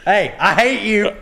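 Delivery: imitated wife's bedtime jab. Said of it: "She says".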